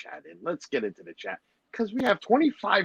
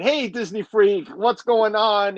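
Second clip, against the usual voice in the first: slow drawn greeting; 6 semitones higher, 3 dB louder, slower than usual. Retold or imitated. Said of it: "It took a while of me saying".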